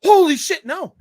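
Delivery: retelling a movie hero's stunned gasp; shocked reaction. Retold or imitated. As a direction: blurt it like the truth just hit you. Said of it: "do you see his reaction?".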